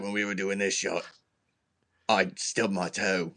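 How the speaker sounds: badly faked British actor; bad British accent. Host attempts Jason Statham chatting beside him, poor British accent. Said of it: "I can't do a British accent".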